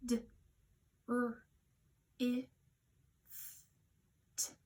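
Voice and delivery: each sound of "drift" said apart with pauses; segmented sounds. Shown as a demonstration. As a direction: tap out "D, r, i, f, t" one phoneme at a time. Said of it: "Let's do it one more time".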